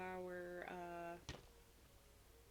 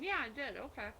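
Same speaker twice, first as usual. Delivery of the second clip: talking through a bite of bread; mouth full; 4 semitones higher, 5 dB louder than usual. Real, not acted. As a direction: say it around a mouthful. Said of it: "I shouldn't talk with my mouth full".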